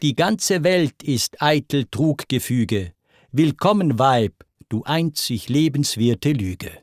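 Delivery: understated shout of surrender; mild mock shout. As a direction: call it out as a surrender. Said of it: "Zeus schrie".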